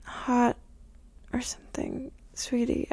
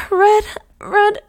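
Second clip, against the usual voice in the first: sharp and higher, louder, stopping everything; urgent safeword; 5 semitones higher, 8 dB louder than usual. Acted. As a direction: call it out to stop.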